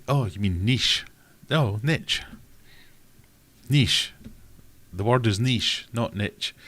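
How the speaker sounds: high, loud oh and NEESH; mock realisation. Realising the YouTuber meant NEESH, mock surprise. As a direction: NEESH said with exaggerated sudden understanding. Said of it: "And then I realised".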